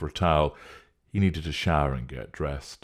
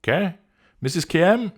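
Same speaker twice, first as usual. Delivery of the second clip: confused; 7 dB louder than usual. Acted. Spanish speaker confused by name.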